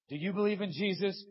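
high, loud demand; gunman's question. Acted. Preacher acting the Columbine shooter, high and loud. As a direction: bark the question at her.

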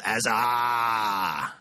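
low, long drawn-out mate's nickname; dropped-voice Aussie nickname. Shown as a demonstration. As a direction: drop it low and stretch the ending. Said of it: "really drop your voice".

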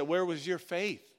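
high, stretched-out needling question; mocking taunt. Coworkers make fun of his faith, mocking. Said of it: "they start making fun of me".

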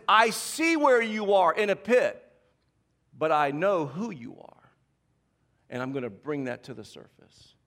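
slow and steady, a promise of worth; slow, reassuring God voice. Retold or imitated. God to Gideon in the pit, slow and reassuring. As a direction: speak it slowly, like God reassuring. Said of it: "what God is saying is".

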